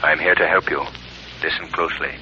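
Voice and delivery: a low, quiet unseen presence; a hint of a hidden stranger whispering to the wife; lightly voiced unseen Shadow. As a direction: speak as an unseen voice urging her on.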